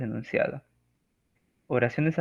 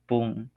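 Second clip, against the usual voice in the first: explosion sound; 4 dB quieter than usual. Shown as a demonstration. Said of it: "el estallido de una bomba".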